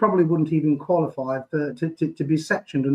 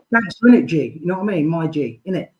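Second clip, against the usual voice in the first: a hint of a mocking street accent; mock street slang; 2 semitones higher than usual. Host mocking wannabe gangsters in street slang.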